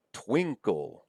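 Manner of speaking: Twinkle as TWIN-kul; stress on first syllable. Shown as a demonstration. Lecturer shows natural stress, Twinkle said TWIN-kul. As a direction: punch the start of Twinkle. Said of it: "stress is here on the first syllable".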